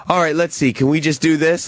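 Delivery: patiently coax, as if to a little one; talking to a child. Retold or imitated. Co-host imitating the repairman, lightly patronizing. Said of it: "speaking to you like a child".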